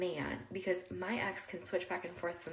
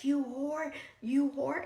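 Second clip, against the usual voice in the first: high-pitched accusing retelling, little louder; retold scream; 7 semitones higher, 4 dB louder, much slower than usual. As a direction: imitate his angry yelling at moderate volume.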